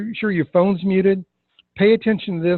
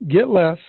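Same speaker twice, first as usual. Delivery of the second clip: "get less" set apart and emphasized; bolded GET LESS. Shown as a demonstration. Coach pointing out script words, stressing "get less". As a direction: put firm weight on "get less". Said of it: "I bolded".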